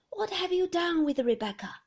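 put-on loud, high, bewildered old woman; an old grandmother who doesn't recognise the guest; confused old lady.

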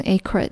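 acre misread as AY-kra; mispronunciation. Shown as a demonstration. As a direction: say acre wrongly with kr run together. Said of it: "很容易看着这个单词就读成".

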